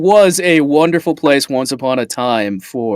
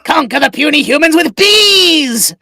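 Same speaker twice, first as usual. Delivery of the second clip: booming frost giant; 10 semitones higher than usual. Acted. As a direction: proclaim it like a giant warlord. Villain plans to conquer surface world.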